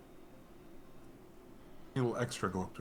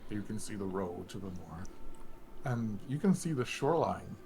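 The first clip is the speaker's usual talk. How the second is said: calm, slower storyteller narration; scene narration; slower than usual. Acted. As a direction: paint the landscape for the players. GM describes the view.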